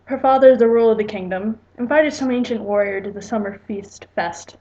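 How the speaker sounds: lightly measured read-aloud narration; story narration. A narrator's reading. Writer reading own story to viewers, plain storytelling narration.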